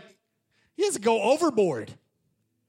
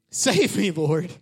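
loud cry of "Save me, Lord"; shouted plea; 8 dB louder, much slower than usual. Acted. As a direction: call out loud for rescue. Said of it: "he shouted".

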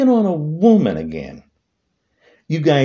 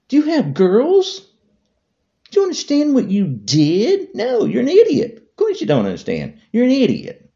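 higher, louder furious questioning; angry outburst; 10 semitones higher, 3 dB louder than usual. Real, not acted. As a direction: lash out at him.

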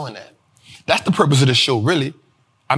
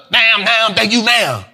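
Impression of a rapper; 4 semitones higher than usual. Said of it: "You remember that version of Nicki?".

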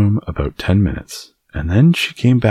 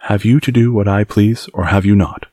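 demanding; 5 semitones higher, 3 dB louder than usual. Acted. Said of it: "he demanded".

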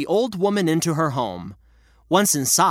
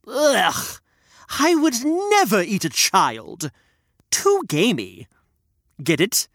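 higher, disgusted little character; Reg's puppet voice; 4 semitones higher than usual. Acted. Reg jokes with the storyteller, disgusted puppet voice. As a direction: groan then deliver the joke.

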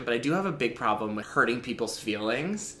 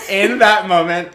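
dramatic restart; 7 semitones higher, 13 dB louder, slower than usual. Real, not acted. Restarts the dramatic phrase laughing.

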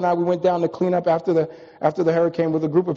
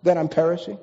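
pleading prayer. Retold or imitated. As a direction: ask God as if hurting and unheard. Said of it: "we say".

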